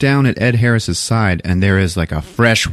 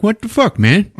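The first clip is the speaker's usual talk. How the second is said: indignant disbelief; 12 semitones higher than usual. Retold or imitated. She watches, indignant.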